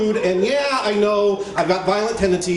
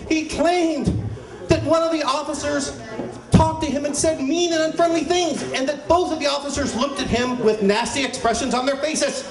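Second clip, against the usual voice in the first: rising outrage; 6 semitones higher than usual. Acted. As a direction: build the indignation with each claim. Building outrage retelling claims.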